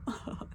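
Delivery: short, soft imitated laugh; quick little retold chuckle. Imitating coworkers laughing at the joke, brief soft laugh. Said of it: "Like, laughing about it".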